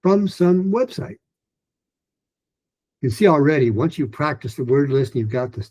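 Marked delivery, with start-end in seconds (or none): 0.0-1.2 from drawn out and high, words slowed; slow it down and keep it high; higher and slower. Shown as a demonstration. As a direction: repeat the line slowly at a high pitch. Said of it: "Do it again".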